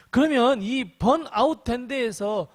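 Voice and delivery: usual speaking voice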